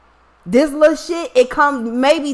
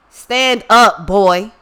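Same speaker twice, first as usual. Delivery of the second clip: calling out; 3 semitones lower, 3 dB louder, much slower than usual. Retold or imitated. Calling to drowning brother in pool.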